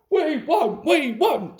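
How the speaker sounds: high, loud we won't; high shrill-free shouting trucks; screaming trucks. A narrator's reading. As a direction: shriek it stubbornly. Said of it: "screamed the trucks".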